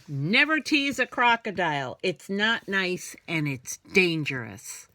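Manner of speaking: mild scolding. Acted. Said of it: "Their mama scolds them".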